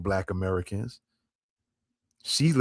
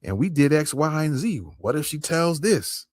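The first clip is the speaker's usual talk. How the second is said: lightly voiced officer, pitched higher; imagined worried officers; 4 semitones higher than usual. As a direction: imitate officers fretting together, voice raised in pitch. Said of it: "some of them's gonna be like".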